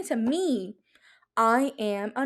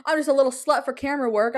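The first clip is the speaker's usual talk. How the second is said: giggling, fast; 3 semitones higher, faster than usual. Real, not acted. Giggly confession about camera work.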